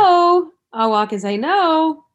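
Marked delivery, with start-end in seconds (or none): 0.0-0.5 loud, high, drawn-out mock rebuff; acted-out yelled refusal. Acting out rebuff to catcallers. 1.4-2.0 high, loud, drawn-out mock rebuff; raised-voice acted refusal. Acting out rebuff to catcallers.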